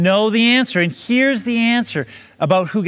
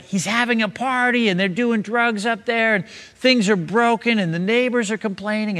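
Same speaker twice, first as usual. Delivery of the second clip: higher-pitched, alarmed report, not truly shouted; mock yelling; 4 semitones higher than usual. Parents phoning about a wild party, mildly mock-yelling. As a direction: rattle off complaints in a mild mock yell. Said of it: "your folks are yelling into the phone".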